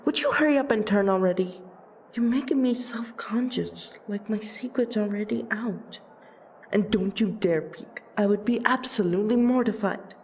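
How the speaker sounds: rushed, self-conscious fussing; mortified and trying to get it over with; embarrassed. Acted. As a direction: hurry it out, flustered and bashful. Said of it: "you are embarrassed".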